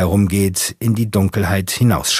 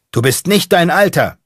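high, loud yell from the back; calling out; 9 semitones higher, 4 dB louder than usual. Acted. Space monkey calling out from the back seat, shouting. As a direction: shout it like a chant. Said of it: "Ein Weltraumaffe ruft".

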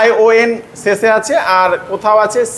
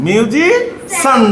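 মিউজিশিয়ান drawn out slowly; slow repeat; 3 semitones higher, much slower than usual. Shown as a demonstration. Teacher slowly repeats মিউজিশিয়ান for the pupil.

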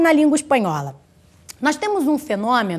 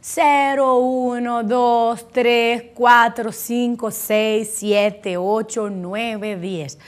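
sing-song count running down in one breath; lightly mimicked learner's neat counting chant; cute student counting; much slower than usual. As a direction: imitate a pupil proudly reciting numbers. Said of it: "daquela forma bonitinha dele, falando".

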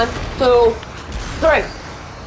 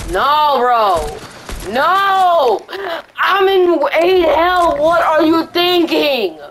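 panicking gamer; 3 semitones higher, slower than usual. Real, not acted. Low health panic.

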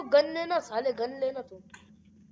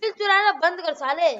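raised, higher voice telling off a friend; annoyed scolding; 4 semitones higher, 4 dB louder than usual. Real, not acted. Gamer scolding a teammate for stealing his kill, irritated raised voice. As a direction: snap at him for stealing your kill.

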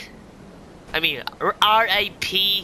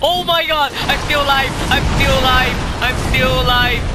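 excited relief; 3 semitones higher than usual. Real, not acted. Relief at surviving in game.

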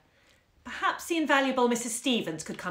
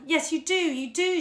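crying bitterly; 10 semitones higher, 6 dB louder than usual. A narrator's reading. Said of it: "she said, crying bitterly".

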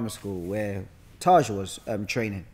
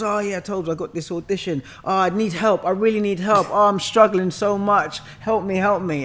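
imitating a whiny, pleading student, higher and louder; mock pleading student; 8 semitones higher, 5 dB louder than usual. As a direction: friend mimicking a panicked student begging for help, mock whiny. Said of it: "And he's crying, snobbing".

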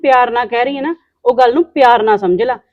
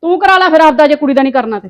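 louder, biting comeback; sharp retort; 3 semitones higher, 4 dB louder than usual. Acted. Woman snapping back at the mother, louder. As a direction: snap back at her.

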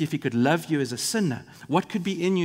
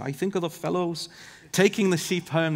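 amateur Scottish shepherd accent; bad Scottish accent. Shown as a demonstration. Preacher quoting an old shepherd, horrible Scottish accent. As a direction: attempt a shaky-quality Scottish accent. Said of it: "maybe we need to try the accent".

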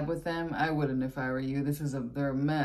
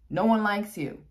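louder, emphatic repeat; 5 semitones higher, 5 dB louder than usual. Shown as a demonstration. Telling the Virgo's rival off, loud emphatic. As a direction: punch No one likes you up high and loud. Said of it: "and no one likes you".

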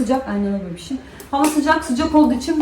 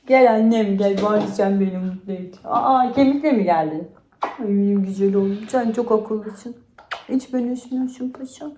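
yumuşak, yavaş, sevgi dolu; köpeğini okşar gibi yavaşça konuş; köpeğe sevgi. Real, not acted. Köpeğini seviyor. (köpeğine yavaş ve şefkatle seslenen sahibi)

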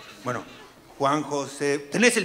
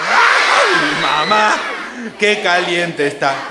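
shrieking mock yell; 8 dB louder, much slower than usual. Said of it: "empezó a gritar". (chillido fuerte de juego)

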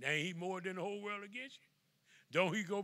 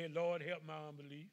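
quiet plea. Shown as a demonstration. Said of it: "just say".

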